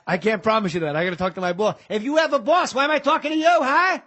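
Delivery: Dog Day Pacino impression on the phone. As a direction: start calm, then needle him. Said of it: "When he answers the phone in fucking Dog Day Afternoon".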